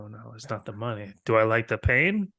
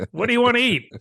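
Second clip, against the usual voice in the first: mock bright question; 11 semitones higher, 5 dB louder, faster than usual. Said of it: "I just".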